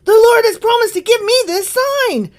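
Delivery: loud, high proclamation; prophetic shout. Acted. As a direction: declaim it at full voice like a prophet. Reader voices the shouting prophet.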